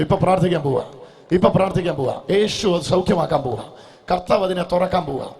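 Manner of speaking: loud, driving call to prayer; rally the crowd with a loud voice; full-force preaching. Real, not acted. Preacher calling the blind to raise hands, full-force preaching.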